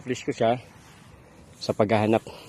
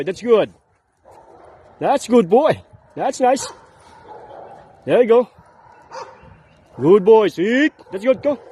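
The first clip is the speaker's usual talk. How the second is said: talking to a dog. Real, not acted. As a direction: cheer the dog on. Praising dog during training.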